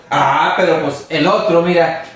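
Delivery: self-justifying excuse. Retold or imitated. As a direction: convince yourself you are fine because others are worse. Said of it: "hacemos algo y decimos".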